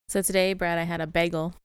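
bagel with a bay sound; odd bagel. Real, not acted. To Brad about breakfast, bagel with a long bay. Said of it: "A what?".

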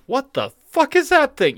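mock awestruck. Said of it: "conquistador ships going".

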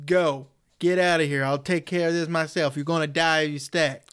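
understated impression of a movie heroine; lightly acted order to leave and save himself; a hint of a solemn protector; Lori. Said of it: "That's my Lori impression".

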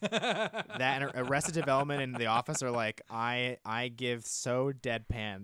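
chuckling through the words; talking while laughing it off. Real, not acted. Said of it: "my deadpan is on point".

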